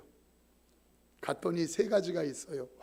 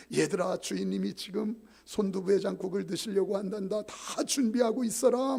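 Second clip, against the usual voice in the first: cells calling out; 3 semitones higher, 3 dB louder than usual. Retold or imitated. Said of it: "다 외치는 거예요".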